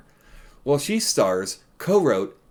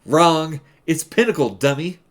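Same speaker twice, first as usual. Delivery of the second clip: loud; 3 semitones higher, 6 dB louder than usual. Pretend. Mocking the clip's answer.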